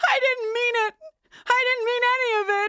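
acted-out sobbing cry, very high-pitched. Recapping a show, acting out Misty's line after Caligula is released, imitating sobbing. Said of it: "And Misty's like sob".

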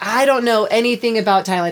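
ordinary delivery

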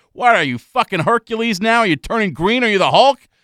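loud, high-pitched screaming tirade. Retelling being screamed at from the bench, imitating someone yelling. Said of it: "he's yelling at the bench".

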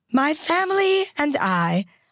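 put-on creaking elderly British voice. Showing the others how she speaks, imitate her in a creaky, old british voice. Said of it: "Creaky, old British voice".

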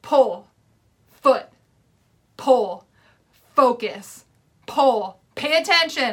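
slow, very loud shouting. Recalling crossing the water, re-enacting yelling out loud at themself. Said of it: "I'm literally yelling out loud".

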